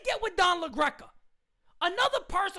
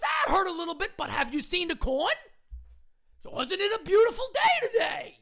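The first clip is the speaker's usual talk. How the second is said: mock carefree manager; 3 semitones higher than usual. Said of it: "the manager comes on and goes".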